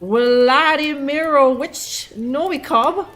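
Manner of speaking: slow, stretched-out reading of a foreign name; labored syllable-by-syllable read; sounding out the name. Real, not acted. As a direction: draw each syllable out as if deciphering it. Sounding out a long Russian name.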